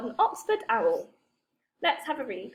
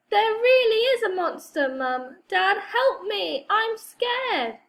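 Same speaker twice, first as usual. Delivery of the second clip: high, loud scared pleading; child calling parents, frightened and loud; 8 semitones higher, 5 dB louder than usual. A narrator's reading. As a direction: cry out in real fright. Kipper truly frightened, calling parents.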